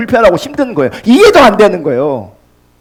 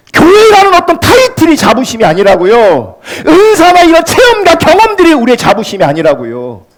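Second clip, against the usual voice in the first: higher, insistent pulpit delivery; emphatic preacher's cadence; forceful preaching; 7 semitones higher than usual. Real, not acted. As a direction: drive each denial home to the congregation.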